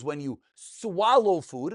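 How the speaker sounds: "swallow" drawn out for emphasis; stress on swallow. Real, not acted. Teacher explaining the first reason, stressing "swallow". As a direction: lean on the word "swallow", stretching it. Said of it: "I emphasize on the word swallow".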